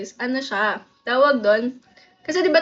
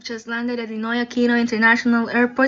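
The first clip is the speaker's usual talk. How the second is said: smooth, even flight attendant read; landing announcement; 2 semitones lower than usual. Pretend. Flight attendant announcing the landing in Manila, smooth formal read. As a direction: recite it like a cabin PA.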